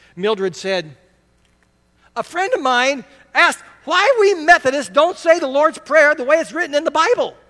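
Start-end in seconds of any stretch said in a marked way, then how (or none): 2.2-7.3 crackly voice, very high and raised. Retelling a woman's question that cornered the speaker: crackling voice. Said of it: "she spoke with a kind of a crackling voice".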